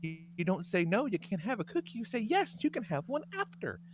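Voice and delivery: lampoon a gentle-parenting influencer; mocking parenting woman. Mocking a woman on TikTok giving parenting advice, prissy and soft. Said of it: "and she's like".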